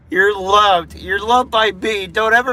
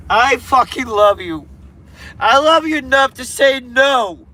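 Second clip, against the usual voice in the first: higher, impassioned plea; emotional; 5 semitones higher than usual. Real, not acted. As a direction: plead with real emotion, voice rising. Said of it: "I'm sorry to get emotional".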